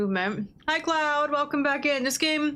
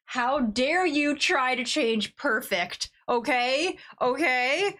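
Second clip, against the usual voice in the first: slow hammed-up outrage; 2 semitones higher, slower than usual. Mock outrage continues.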